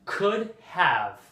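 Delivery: COULD HAVE as two distinct words; "could have" with the h fully sounded; careful, unreduced "could have"; full careful form. Shown as a demonstration. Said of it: "which is a reduction of".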